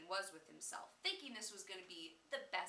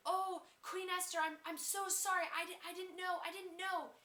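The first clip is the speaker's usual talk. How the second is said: higher, louder mock begging; pleading; 8 semitones higher, 5 dB louder than usual. Haman begging the queen for forgiveness, in mock panic. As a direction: play Haman groveling for mercy, stammering. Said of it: "he was pleading with the king".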